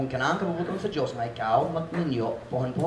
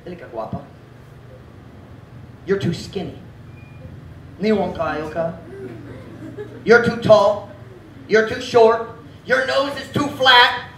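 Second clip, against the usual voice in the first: devil whispering; 8 semitones higher, 5 dB louder than usual. Retold or imitated. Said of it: "The devil whispers".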